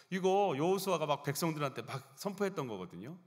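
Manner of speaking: usual speaking voice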